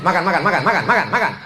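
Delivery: a light mock of a pushy host urging food, with a laugh. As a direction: nag them to eat, half laughing. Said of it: "tapi cara nyuruhnya".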